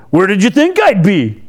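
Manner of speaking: snippy, talking back to parents; disrespectful tone. Shown as a demonstration. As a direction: say it like a cheeky kid. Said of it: "it depends on their tone".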